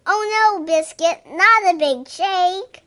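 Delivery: high loud oh no; excited alarm. Acted. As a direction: squeal in mock alarm at the puppy. Dog about to shake water.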